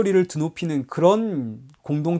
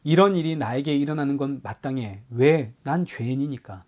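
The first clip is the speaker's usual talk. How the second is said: quiet humble acceptance; 4 semitones lower, 4 dB quieter than usual. Retold or imitated. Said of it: "기독교는 억울한 일을 당할 때에".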